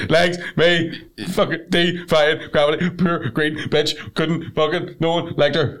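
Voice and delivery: slow, halting words between sobs; mock crying recovery. Shown as a demonstration. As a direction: blubber it out in broken pieces. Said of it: "It's a recovery period".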